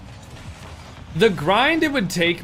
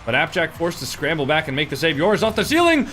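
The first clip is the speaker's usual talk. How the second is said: play-by-play. Acted. Live Rocket League commentary.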